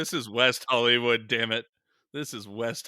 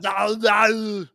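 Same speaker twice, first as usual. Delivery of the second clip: urgent hush; 10 semitones higher, 11 dB louder than usual. Pretend. Friends hush the mocker.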